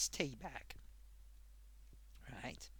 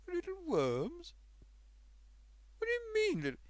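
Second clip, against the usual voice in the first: shocked disbelief; 13 semitones higher than usual. Retold or imitated. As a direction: stretch it out in horrified disbelief.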